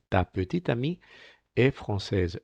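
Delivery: careful TA PETITE AMIE EST FRANÇAISE, endings unsaid; "petite amie est française" with final e dropped; silent final E. Shown as a demonstration. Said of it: "esta de aquí no se pronuncia".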